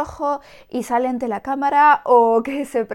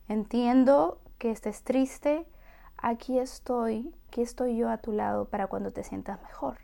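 soft, gentle reassurance; comforting mother; 5 dB quieter than usual. Shown as a demonstration. A mother telling her crying daughter she is there, softly. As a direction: quietly stay beside the child.

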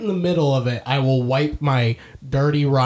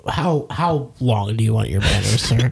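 mock polite; 4 semitones lower than usual. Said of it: "I'd immediately go".

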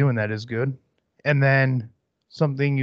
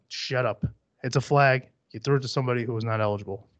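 normal talking voice

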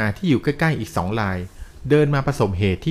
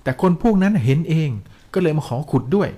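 higher-pitched, mildly desperate pleading; mock panicked cry; 6 semitones higher than usual. A narrator's reading. Strangled dreamer explains he told nobody, mock desperate cry. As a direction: plead your case in a raised, storyteller's mock cry. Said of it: "เขาก็ร้องตะเบงเสียงหลง".

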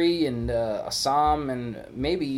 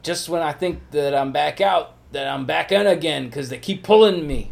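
lightly voiced movie mobster quote; raised, slightly louder film-line delivery; Al Pacino; 4 semitones higher, 6 dB louder than usual. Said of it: "that's exactly how Al Pacino said it".

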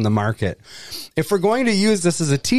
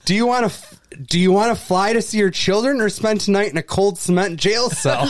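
mock shouted threat; 5 semitones higher than usual. Reader voices an agent threatening a traveler with jail, mock shouted threat. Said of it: "he should shout".

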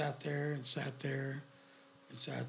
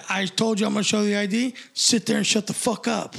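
retold angry retort; 3 semitones higher, 4 dB louder than usual. Retold escalating quarrel with cop.

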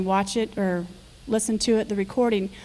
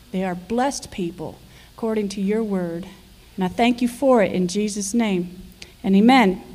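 prayer. Acted. Pastor's prayer before offering.

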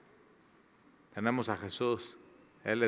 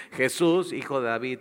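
desperate shout; 3 semitones higher, 5 dB louder than usual. Retold or imitated. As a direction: shout his name so he turns. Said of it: "le grita".

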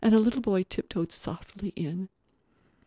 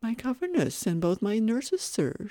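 put-on higher, earnest child voice; polite little boy; 6 semitones higher than usual. Little boy questioning the guest, politely puzzled. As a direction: speak as a small, courteous boy.

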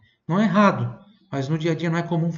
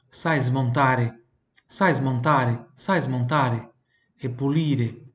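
slow drill repetition; much slower than usual. Shown as a demonstration. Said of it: "som do L aqui".

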